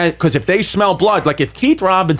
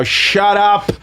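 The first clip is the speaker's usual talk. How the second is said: lightly voiced heckler yelling from the back; mock heckle, punch each command; hint of an old-school comic shouting someone down; Bobby Kelly; much slower than usual. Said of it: "you'll hear Bobby go".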